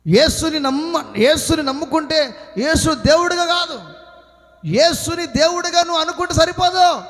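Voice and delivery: emphatic, projected sermon delivery; full-force preaching. Real, not acted. Preacher telling believers who is righteous, full-force preaching. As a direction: drive it home to the congregation.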